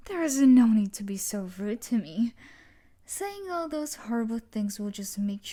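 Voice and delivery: loud, offended scolding; angry rebuke. Acted. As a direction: bite back at the rude captive. Captor angered by rude captive.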